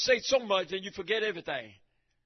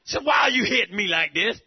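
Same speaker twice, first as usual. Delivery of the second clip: donkey's complaint; 5 dB louder than usual. Retold or imitated. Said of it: "the donkey talked to that prophet".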